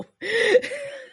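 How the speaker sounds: high-pitched laugh. Real, not acted. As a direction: let out a giggle. Laughing at joke.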